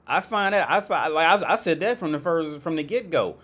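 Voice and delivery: high, mocking echo of the man from the clip; echoing the clip's words in a high mocking voice; mock impression.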